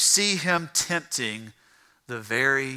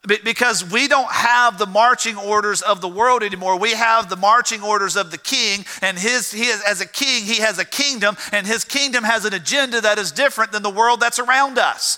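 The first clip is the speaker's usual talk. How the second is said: building pulpit proclamation; fervent preaching; 6 semitones higher than usual. Real, not acted. Preacher rallying citizens of the kingdom, fervent preaching. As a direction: let the pitch climb as you preach.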